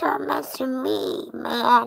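very high-pitched, slow, creaky voice. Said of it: "I'll be like".

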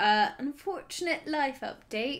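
put-on British accent. Opening a book video with a co-host, announcing an update in a british accent. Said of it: "I've been talking in a British accent".

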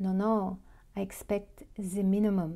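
put-on speaking with a French accent. Retelling a man's reply to the speaker's comment, in his French accent. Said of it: "in his wonderful French accent".

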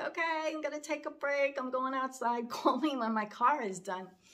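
tearful, talking while crying. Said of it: "in the service station crying".

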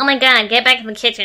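sneering, dismissive, mocking jeer. Acting out another commenter's joke: imitating a sexist commenter. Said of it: "I love this one best".

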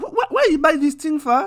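very high, loud voice, stammering and stumbling. Acting out a mother scolding about a purchase: imitating mum. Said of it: "my mum would be like".

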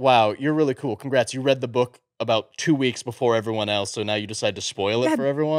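plain

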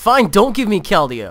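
shrill, very loud shouting. Opening card packs and shouting at the game: shouting at the game. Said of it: "Stop shouting at it".

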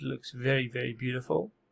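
dry, heavily sarcastic tone. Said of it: "I'm obviously being sarcastic".

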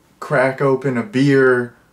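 ordinary talk

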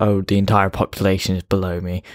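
ordinary talk

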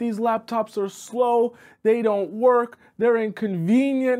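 angry, ranting delivery. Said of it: "He's like".

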